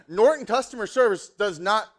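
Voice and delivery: loud, high indignant outburst; fired-up retelling. Retold or imitated. Preacher scolding customer service over the phone, fired up. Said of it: "I was so fired up".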